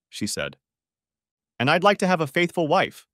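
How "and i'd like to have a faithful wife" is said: sharp, raised retort; snapped back. A narrator's reading. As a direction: bite the words back at her. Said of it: "Jonathan snapped back".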